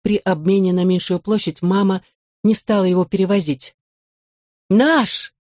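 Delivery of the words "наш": mild joyful exclamation; exclaimed together. A narrator's reading. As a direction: blurt it out as you spot the old sideboard. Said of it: "воскликнули мы обе".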